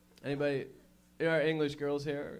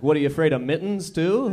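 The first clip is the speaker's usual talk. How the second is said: mock taunt; 2 semitones higher, 11 dB louder than usual.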